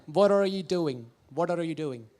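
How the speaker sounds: slightly rounded American English; American accent, lightly rounded at the edges. Shown as a demonstration. Comedian contrasting accents for the audience, American accent. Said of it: "And in American".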